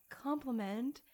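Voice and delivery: ordinary talk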